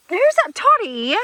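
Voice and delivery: high, loud, slow questioning; chiding an animal. Real, not acted. Challenging a misbehaving goat.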